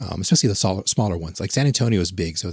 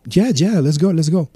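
much higher, louder eager yes; 9 semitones higher, 7 dB louder than usual. Retold or imitated. He eagerly accepts the woman's invitation, higher and louder. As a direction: jump at the offer. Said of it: "I'm like".

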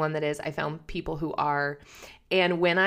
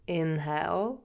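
soft, airy imitation of the yoga teacher saying "Inhale"; 4 dB quieter than usual. Imitating her yoga teacher's soothing cue, lightly. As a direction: breathe out "Inhale" like a gentle instructor. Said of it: "the sound of her voice when she said".

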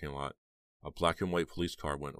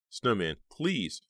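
slow pleading; 6 semitones higher, 5 dB louder, much slower than usual. A narrator's reading. Heather begging.

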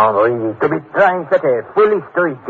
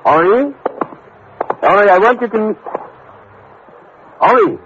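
calling out; 9 semitones higher than usual. Acted. Father calling for missing son.

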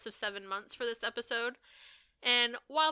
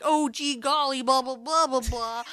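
hammed-up hick twang, louder; mock folksy accent; 2 semitones higher, 5 dB louder than usual. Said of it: "with your little accent".

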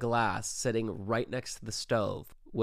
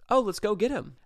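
high eager mock voice of the date; mimicking the date; 9 semitones higher, 3 dB louder than usual. The date jumping at the chance to come, mock eager. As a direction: chirp it like the keen date.

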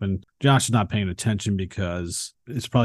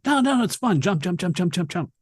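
put-on higher, chanting jump like a giddy child; eager kid; 7 semitones higher, faster than usual. Josh chanting at Susan on the trampoline, higher giddy kid. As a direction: bounce the words like an excited boy.

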